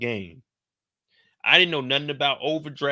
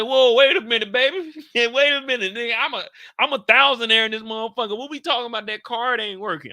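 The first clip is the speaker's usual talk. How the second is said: much higher and louder, brash disbelief; retold startled protest; 8 semitones higher, 5 dB louder than usual. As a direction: act shocked and cocky at the register. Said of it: "I said".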